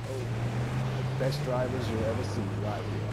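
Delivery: put-on slow, drawn-out American accent; playful American accent, words stretched out. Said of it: "talk about American accent".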